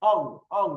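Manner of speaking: "অং" ending in a nasal ng, like Bengali anusvara; anusvara-like pronunciation. Shown as a demonstration. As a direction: demonstrate "অং" twice, separately, closing on the ng sound. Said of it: "এই অনুসারের মতো উচ্চারণ হবে". ("অং" অনুস্বারের মতো উচ্চারণ)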